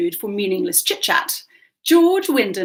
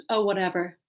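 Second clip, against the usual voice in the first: put-on dismissive LA-accented socialite; Anglo Los Angeles accent; 2 semitones lower than usual. Hostess dismisses a guest's correction, Anglo LA accent. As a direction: wave it off in an LA accent. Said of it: "in her Anglo Los Angeles accent".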